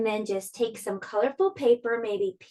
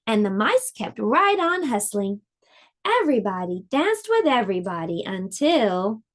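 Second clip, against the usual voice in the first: gentle storybook read-aloud; lively storybook narration for little listeners; reading to children. A narrator's reading. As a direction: tell it like a bedtime picture book. Reads picture book to children.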